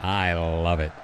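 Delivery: amused, slowed through a laugh. Real, not acted. Host laughing at their shared sarcastic voices.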